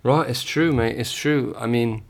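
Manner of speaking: put-on a light, casual British accent, asked for; playful put-on British accent. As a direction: answer the question in a lightly done British accent. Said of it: "in British?".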